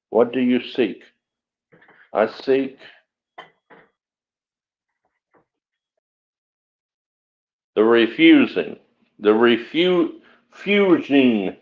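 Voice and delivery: mumbling without teeth in; lisping, gummy toothless speech. Real, not acted. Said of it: "I can't talk, my teeth are gone".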